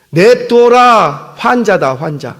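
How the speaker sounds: slow, drawn-out verdict; dismissive commander. Retold or imitated. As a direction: wave him off as a lost cause.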